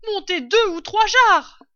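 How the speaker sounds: high, loud shout from upstairs; calling down. A narrator's reading. Mistress upstairs ordering jars from the cellar, calling down. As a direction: holler an order down the stairs. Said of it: "l'autre voix répondit".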